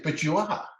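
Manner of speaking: high, gently contradicting quote; retold contradiction. Trainer points out the patient's tears, retold high contradiction.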